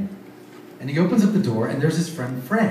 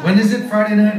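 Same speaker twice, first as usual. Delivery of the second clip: louder, higher, through laughter; laughing question; 5 semitones higher, 7 dB louder than usual. Retold or imitated. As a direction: ask it while laughing. Friends reluctantly asking, laughing.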